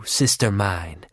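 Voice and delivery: low, slow, savouring sister mine; slow low taunt. Acted. Bonanak taunts her sister.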